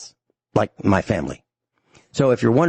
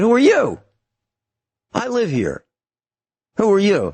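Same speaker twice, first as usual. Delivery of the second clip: retold demand; 10 semitones higher than usual. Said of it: "and he said".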